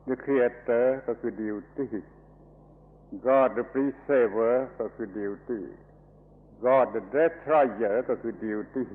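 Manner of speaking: very slow, each word weighed; measured, deliberate preaching; slow emphatic listing. Real, not acted. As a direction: spell it out word by word. Preacher lists God's aspects slowly.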